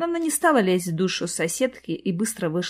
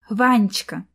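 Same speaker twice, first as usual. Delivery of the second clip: tender sing-song; slower than usual. Acted. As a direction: croon "Ванечка" sweetly. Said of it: "нежно пропела она".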